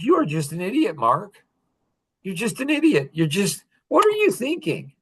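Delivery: incredulous scolding of himself; self-scolding. Retold or imitated. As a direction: tell yourself off in rising exasperation. Scolding himself in retold scene.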